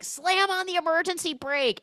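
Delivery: high, loud mock order; urgent command. Dad ordering his son in the crash, urgent mock order. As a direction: bark the order in alarm.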